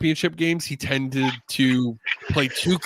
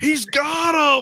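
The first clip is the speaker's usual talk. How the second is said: put-on very high, hyped-up shout; 11 semitones higher, 3 dB louder than usual. Retelling a broadcast call, imitating an announcer yelling. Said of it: "Larry yelling in the background".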